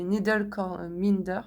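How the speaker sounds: English term in a French accent. Real, not acted. Crafter naming a notion to viewers, French-accented English. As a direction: stumble through the English word with a French accent. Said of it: "Désolée pour mon accent anglais".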